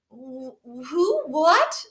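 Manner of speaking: high, stammering bunny surprise; Buddy confused by the varmint; startled. Acted. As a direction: stumble over the words, caught off guard.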